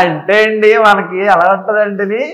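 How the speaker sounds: funny comic voice. Pretend. Actor shows comedy on the interviewer's request, loud funny voice. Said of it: "చాలా ఫన్నీగా హాస్యం".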